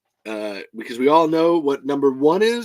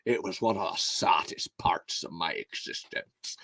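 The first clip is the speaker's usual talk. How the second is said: terrible Sean Connery. Pretend. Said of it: "That was a fucking terrible Sean Connery".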